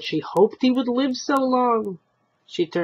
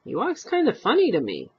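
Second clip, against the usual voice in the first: put-on old woman's voice; 6 semitones higher, faster than usual. Old wife voiced in story.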